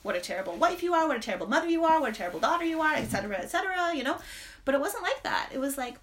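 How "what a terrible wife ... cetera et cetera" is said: harsh inner critic. Retold or imitated. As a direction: berate yourself like a merciless inner judge. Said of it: "like a self voice".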